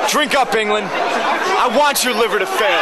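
slow, laughing gloat; sneering wrestler laughing at the fans; laughing taunt. Acted. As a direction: chuckle through the threat.

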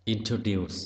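"Introduce" stressed on its third syllable. Shown as a demonstration. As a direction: put the weight on "-duce" in "Introduce". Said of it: "trọng âm rơi vào âm tiết thứ ba".

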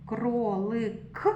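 Кролик with the last к split off; pause, then release the final к of Кролик; separated final К. Shown as a demonstration. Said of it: "Твердий приголосний К".

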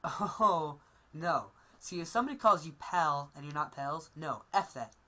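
loud, indignant mock outrage; hammed-up offended rant; Dane Cook outraged. Dane Cook refusing to be called pal, loud mock outrage. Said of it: "so Dan Cook is like".

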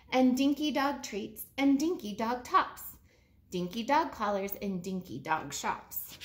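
lively storybook read-aloud; animated picture-book voice; reading to children. Acted. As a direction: read it to a class of kids.

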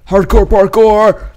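high, drawn-out shout; mock battle cry. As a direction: shout it like a hammed-up catchphrase. Mock battle cry while jumping.

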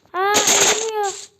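high, loud laughing complaint; giggling, half-alarmed squeal; laughing protest. Real, not acted. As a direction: laugh helplessly as the horse won't let you down. Horse won't let him off.

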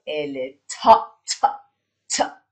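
"ta" repeated alone to show the sounded t; liaison t isolated. Shown as a demonstration. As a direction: break off "elle est" on a repeated "ta". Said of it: "چون ت داره".

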